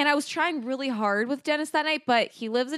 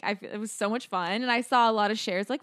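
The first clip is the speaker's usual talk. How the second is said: ordinary talk, nothing marked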